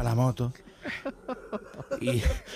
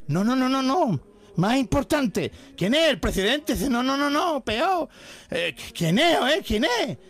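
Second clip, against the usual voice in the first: high, louder, rising agitation; excited; 11 semitones higher, 3 dB louder than usual. Acted. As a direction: build the suspense breathlessly. Policeman escalates, revealing the passenger.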